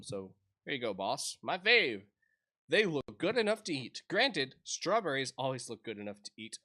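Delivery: lively game dialogue read. Acted. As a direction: read the text boxes aloud with life. Voices game dialogue boxes.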